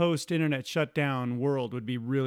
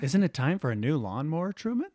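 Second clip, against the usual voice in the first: imitating wife. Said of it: "That's what she says".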